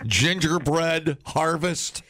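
high, slow dainty request; slow dainty order. Pretend. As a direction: savor each word slowly. Mock shop customer.

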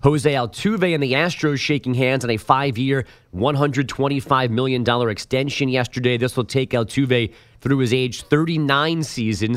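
polished radio headline delivery; scripted sports-desk bulletin; sports news read. Acted.

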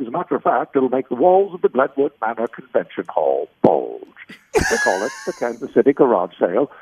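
put-on old New England man reading a radio ad; commercial read. Shown as a demonstration. Voice actor recalls his first commercial, folksy ad read. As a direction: sell the garage sale like a seventy-five-year-old Yankee. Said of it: "my first commercial".

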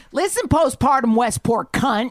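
loud, high-pitched telling-off; angry confrontation. Retold or imitated. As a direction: tear into the mother. Repeats retold telling-off of mother.

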